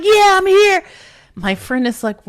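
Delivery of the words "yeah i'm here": high, loud hype-man reply. Retold or imitated. Drunk woman greeting the actor, loud DJ swagger. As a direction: boast it like a club DJ. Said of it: "Why are you talking like that?".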